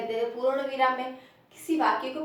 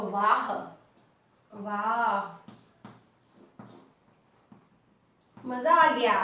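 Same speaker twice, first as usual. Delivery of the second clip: savoured "wah", drawn out, then louder; acted delight; 2 semitones lower, 4 dB louder, much slower than usual. Shown as a demonstration. Teacher demonstrates a happy exclamation over hot jalebi, savouring delight. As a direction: relish each exclamation with pauses between. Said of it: "बहुत खुश हुआ".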